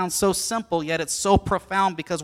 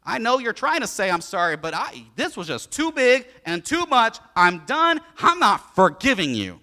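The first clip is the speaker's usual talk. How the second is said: firm refusal; 4 dB louder than usual. Retold or imitated. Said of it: "we want to take it and say".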